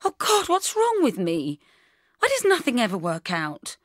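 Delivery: high, loud anguished cry to herself; despairing wail. Acted. Heartbroken woman crying out alone at night, anguished. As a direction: wail it out like everything has collapsed.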